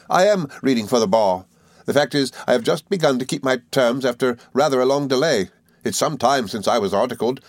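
put-on high, eager old schoolfellow; Traddles, good-tempered. A narrator's reading. Traddles welcoming his old friend, high and good-tempered. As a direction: explain earnestly in a lifted character voice.

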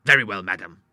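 mild indignation on a curt reply; very angry. Acted. Doctor taking leave of the widow, restrained anger. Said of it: "The doctor was very angry".

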